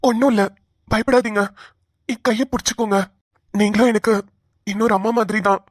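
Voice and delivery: calm, tender comfort; steady her gently through the pain; reassuring. Acted. Brother-in-law comforts woman in labour, reassuring.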